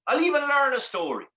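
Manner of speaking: high desperate bargaining; begging for help. Acted. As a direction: plead it high like a trapped man. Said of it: "begging for help".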